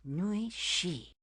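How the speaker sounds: "Nui shi" with shi falling sharply; teacher modelling the falling tone; falling tone demo. Shown as a demonstration. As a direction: drop the pitch on shi. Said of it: "the last syllable of miss has a falling tone".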